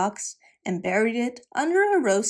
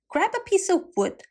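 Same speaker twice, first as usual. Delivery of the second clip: wicked stepmother; 9 semitones higher than usual. A narrator's reading. Stepmother orders the girl.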